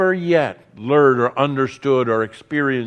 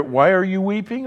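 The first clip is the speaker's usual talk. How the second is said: higher, rising disbelief at the question; incredulous echo; 5 semitones higher than usual. Acted. Preacher mocks the angel's question to the congregation, incredulous. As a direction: echo it as if it were absurd.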